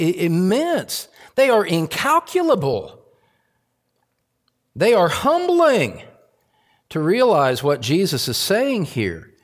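high, rising preacher's emphasis; emphatic preaching. Real, not acted. Preacher to congregation on a staggering verse, emphatic preaching.

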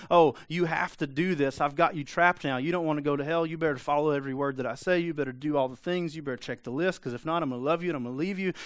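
half-hearted mock of a God who traps you; mock controlling God. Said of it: "He didn't come to say to him".

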